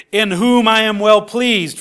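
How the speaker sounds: projected proclamation from the cloud; thundered. Acted. Preacher voices God declaring pleasure in his Son, mildly thundering. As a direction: declare it firmly, as God's voice. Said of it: "from this cloud a voice thundered".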